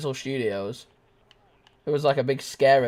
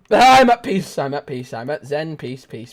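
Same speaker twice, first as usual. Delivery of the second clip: mock zen; 8 dB louder than usual.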